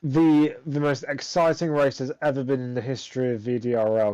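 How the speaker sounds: mock cheer sagging into deadpan; sarcastic. Real, not acted. Host opens interviews after a dull race, sarcastic. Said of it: "Can you tell I'm being sarcastic".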